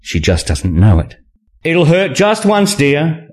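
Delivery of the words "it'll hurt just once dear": slow, higher-pitched reassurance; calm. A narrator's reading. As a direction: reassure slowly and calmly. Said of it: "I said calmly".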